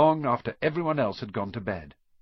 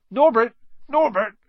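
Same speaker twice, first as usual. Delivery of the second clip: much higher, much louder call of the name; 13 semitones higher, 10 dB louder than usual. Acted. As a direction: sing out to the dragon like a proud parent. Hagrid calling to the dragon.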